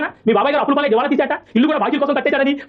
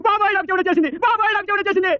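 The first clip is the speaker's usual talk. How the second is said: high mock lament; wailing; 6 semitones higher than usual. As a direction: wail it like a comic sufferer. Wailing to uncle. (ఏడుపు గొంతుతో వాపోవడం)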